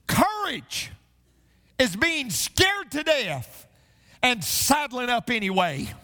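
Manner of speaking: lightly voiced cowboy, slow; a hint of a slow John Wayne drawl; John Wayne impression. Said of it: "To quote the great theologian John Wayne".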